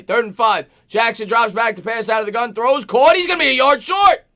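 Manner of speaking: building to a loud, high call; live football call, climbing in pitch and volume; excited play-by-play. Real, not acted. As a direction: call the play, rising as it falls short.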